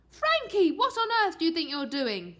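high, loud angry mother; demanding. A narrator's reading. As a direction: scold the boy sharply. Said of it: "demanded Mum".

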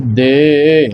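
ਦੇ drawn out with a slight glide; correct pronunciation. Shown as a demonstration. Teacher showing learners the reading, long gliding ਦੇ. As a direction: slowly stretch and sway the vowel of ਦੇ. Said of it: "ਹਿਲਾ ਜੀ ਕੇ ਇਸ ਨੂੰ ਉਚਾਰਨ".

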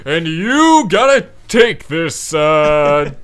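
slow, loud wise sensei; lightly voiced martial arts master; Guy Sensei voice. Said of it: "a Guy Sensei voice where he's like".

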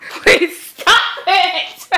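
high, slow, pleading through real laughter; laughing hard. Real, not acted. Watching a cutscene, begging it to stop while laughing. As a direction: beg it to stop while cracking up. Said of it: "It's making me laugh so hard".

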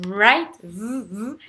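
"right" with a held R, then the R alone; English R. Shown as a demonstration. Teacher isolating R for learners, "right" with a tight revved R. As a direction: rev the R of "right" with a closed mouth. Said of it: "entre les R et les W".

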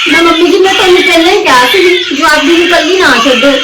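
urgent, distressed blame; upset reproach. Acted. Mother blames mother-in-law after baby's fall. (ਘਬਰਾਹਟ ਭਰਿਆ ਉਲਾਂਭਾ)

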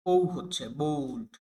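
slow, drawn-out ও in বোল্ড; slow vowel demo. Shown as a demonstration. Teacher models the vowel slowly for learners. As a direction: stretch the ও in বোল্ড for the class. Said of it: "অর্থাৎ একটু ও এর মতো".

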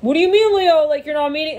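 high, loud indignant disbelief; mock outrage. Friends shocked at Leo, mock outrage. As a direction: act shocked Leo won't meet. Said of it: "people who are like".

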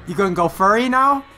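excited teasing. Real, not acted. Teasing a character on screen.

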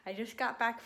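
numb mouth after dentist. Real, not acted. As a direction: talk with a numbed mouth. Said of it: "and I'm numb".

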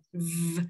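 voiced, buzzing "v" on its own; buzzed V. Shown as a demonstration. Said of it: "để hai răng cửa chạm môi dưới".

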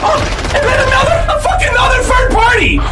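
frantic outburst. Real, not acted. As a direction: rattle it off in outraged disbelief. Raging at a third party.

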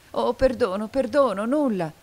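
high, loud plea for forgiveness; narrated tearful outcry, pitched high; desperate cry. A narrator's reading. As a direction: cry out, begging urgently. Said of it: "gridò Viola gettandosi fra le sue braccia e prorompendo in lagrime".

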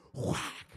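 loud voiceless "whack" like a slap; sharp spoken sound effect; sudden smack. Retold or imitated. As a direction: burst it out as a smack from heaven. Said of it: "reach down from heaven with love and be like".

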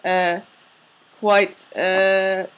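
hesitant put-on English accent; caught English accent. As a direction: grope for words in mock English accent. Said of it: "Now your accent is being".

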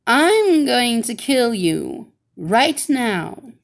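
slow it down and threaten; menacing threat. Acted. Wicked witch threatens Georgia.

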